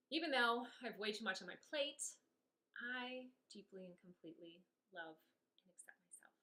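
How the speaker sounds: rhythmic affirmation, each phrase set apart; tapping setup statements. Shown as a demonstration. Coach demonstrating a tapping round to viewers, steady affirmations. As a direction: recite the setup like a mantra while tapping. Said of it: "a really quick round just so you can kind of see".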